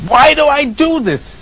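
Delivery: high, whining self-reproach; mock despairing self-talk; exasperated self-blame. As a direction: scold yourself in frustration.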